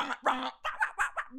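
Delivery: mouthed electronic rave noise; rhythmic vocal beat imitation; imitated rave beat. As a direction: imitate a buzzing rave drop. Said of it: "A rave is more like the".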